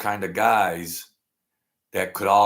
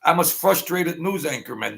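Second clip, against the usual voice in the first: laughing self-mockery; 7 semitones higher, 6 dB louder than usual. Real, not acted. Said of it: "I'm a frustrated weatherman".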